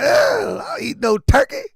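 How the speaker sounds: put-on high, shouted kid's protest; a little boy yelling no at his plate; mock child refusal. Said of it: "But he's like".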